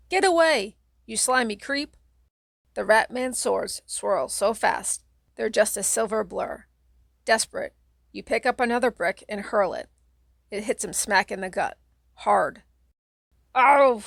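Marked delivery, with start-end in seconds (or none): 0.1-2.0 yell. Acted. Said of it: "you yell". 13.5-14.0 loud, high yelp of pain; cry of pain. Acted. The Rat Man crying out, hit in the gut, loud yelp. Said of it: "the Rat Man cries".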